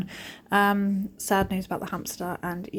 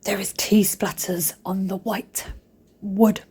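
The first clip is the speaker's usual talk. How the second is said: mock telling off; slower than usual. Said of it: "I was going".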